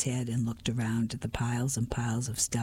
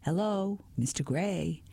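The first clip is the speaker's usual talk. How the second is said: calling out; 6 semitones higher than usual. Acted. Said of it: "I cried".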